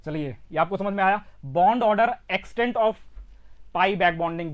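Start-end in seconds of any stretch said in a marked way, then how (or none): 1.5-4.5 deliberate, phrase by phrase; speaking slowly. Real, not acted. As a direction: give each term its own space. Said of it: "हाँ slow ही बोलता हूं". (धीरे-धीरे, ठहर कर बोलते हुए)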